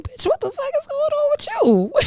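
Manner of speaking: high, startled retold outburst at herself; mock-shocked, asking herself what's wrong; shocked self-question. Reacting to her own dark thoughts.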